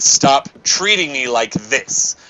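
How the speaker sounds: slow, firm warning; measured angry demand; mild anger. Retold or imitated. In the doorway, a slow firm angry demand. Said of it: "I said it very angry".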